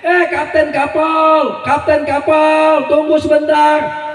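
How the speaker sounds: slow drawn-out call after the ship. Acted. Poor man calling after the departing captain, drawn out. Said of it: "dia teriak".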